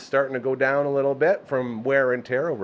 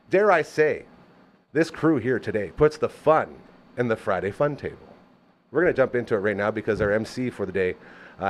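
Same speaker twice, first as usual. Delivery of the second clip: ordinary talk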